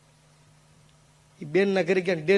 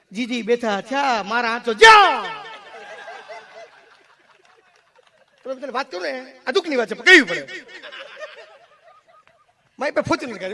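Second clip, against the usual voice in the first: higher folk storyteller voice, quick and excited in bursts; Hakabha Gadhvi impression; 7 semitones higher, 3 dB louder than usual. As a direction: spin the tale like a dayro artist, laughing. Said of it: "એમાં સૌથી પહેલો અવાજ હકાભા ગઢવી". (ઊંચા અવાજે હકાભા ગઢવીની નકલ)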